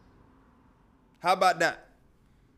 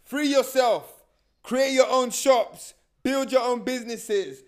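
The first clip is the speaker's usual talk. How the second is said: higher, slow rousing call to the people; lightly voiced Garvey, raised and slow; preaching Garvey; 5 semitones higher, slower than usual. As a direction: preach it like a leader at a rally. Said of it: "Marcus Garvey saying".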